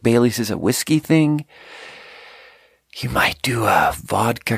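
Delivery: polite, patient explaining to a customer; said all nice. Retold or imitated. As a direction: explain it nicely, like good service. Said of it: "I say it all nice".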